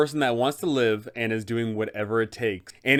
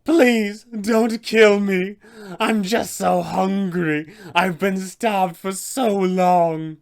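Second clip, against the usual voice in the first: much higher and louder, very slow desperate begging; pleading vampire spawn; 7 semitones higher, 6 dB louder, much slower than usual. Acted. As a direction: beg the party for your life, drawn out and starving. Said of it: "Doru will be a bit more pleading".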